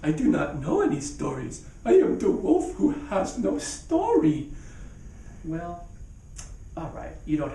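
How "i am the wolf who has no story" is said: high, hammed-up wail; dramatic lament. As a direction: overplay the self-pity.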